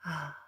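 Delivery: sighing after the excitement is over; deflated sigh. Acted. Streamer shows the after-Disney letdown, deflated sigh. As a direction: let out a let-down "ah" on a sigh. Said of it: "you're just like".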